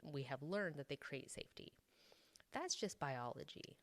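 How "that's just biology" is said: lilting, light sing-song tune; sing-songy voice. Shown as a demonstration. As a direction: say it like a light little melody. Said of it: "in, like, a sing-songy voice".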